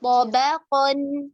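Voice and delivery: तबक़न with heavy ta and qaf, thin ba, slow; thin ba between heavies. Shown as a demonstration. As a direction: keep the ब of तबक़न light. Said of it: "बारीक हर्फ बा है वो मोटा ना हो". (बा बारीक, बाकी मोटे)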